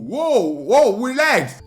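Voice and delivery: high, repeated backing-off whoas; mock alarm. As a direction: plead for her to calm down. Child backs off from challenging mom.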